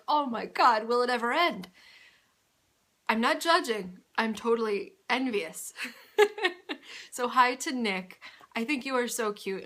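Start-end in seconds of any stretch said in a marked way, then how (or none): 0.1-1.7 mock overwhelmed. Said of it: "I was just like". 6.2-7.1 real laugh. Real, not acted. Laughing at own joke.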